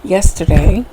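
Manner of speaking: slow, careful speech through sore braces; talking around freshly tightened braces; sore jaw from braces. Real, not acted. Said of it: "I'm a little slow today because I just got my braces tightened".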